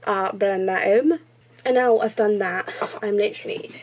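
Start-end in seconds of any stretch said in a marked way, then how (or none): 0.0-1.2 talking right after biting tongue; words slightly garbled by a sore tongue; just bit tongue. Real, not acted. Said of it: "ow, bit my tongue".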